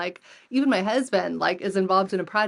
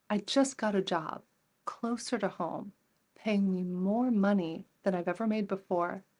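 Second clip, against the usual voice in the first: retold tearful thanks; 3 dB quieter than usual. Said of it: "And she's in tears".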